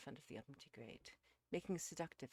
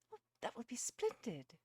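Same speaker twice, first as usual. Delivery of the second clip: put-on high, bright-eyed young lady, louder; delighted; 8 semitones higher, 6 dB louder than usual. A narrator's reading. Phyllis takes up the picnic idea, delighted. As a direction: welcome the plan eagerly, pitched up.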